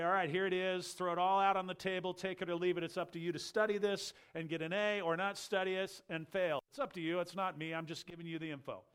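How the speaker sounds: mock a careless college lecturer dumping info; lightly played take-it-or-leave-it professor; offhand lecturer. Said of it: "college professor and come and lecture".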